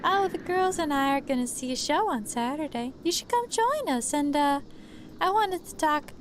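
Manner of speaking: sweet waitress voice. Acted.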